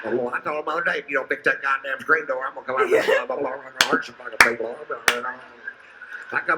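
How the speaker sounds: high, hammed-up redneck woman ranting. Comedian voicing a jabbering woman in the row, mock rant. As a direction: squawk it out like a fed-up trailer-park mom.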